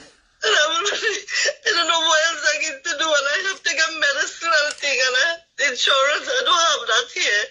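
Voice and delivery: real tearful voice, breaking between words; crying. Real, not acted. Caller with no money for medicine, tearful. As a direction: fight back sobs as you speak. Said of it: "Don't cry".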